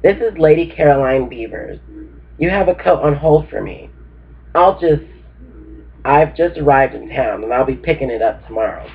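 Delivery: put-on a light touch of an upper crust English accent; understated upper crust English accent. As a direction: play a lady on the phone in light posh English. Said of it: "Affecting an upper crust English accent".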